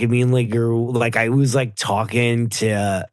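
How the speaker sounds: imitated frat-boy accent, trailing into a slow drawl; Patrick. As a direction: parody a Californians-style bro accent. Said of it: "I love when he talks".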